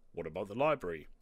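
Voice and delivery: lightly voiced dad suggestion; dad's voice. A narrator's reading. Dad proposing a holiday hobby, lightly voiced suggestion. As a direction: put it forward as the thinking dad. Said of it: "he said finally".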